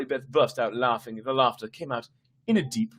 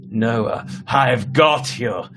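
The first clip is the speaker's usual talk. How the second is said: deep evil raspy voice; much slower than usual. Acted. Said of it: "shrieked, her voice deep, raspy, evil".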